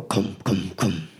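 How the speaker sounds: knocking noise made with the mouth; three short, even knock sounds; imitated knocking. Flash knocking on the truck door, imitated knocks. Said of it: "they, like, go".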